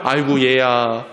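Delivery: lightly voiced, fussing grandma; apologetic grandmother. Grandmother taking blame for the spilt water, gently apologetic. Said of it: "그 얘기를 들은 할머니가요".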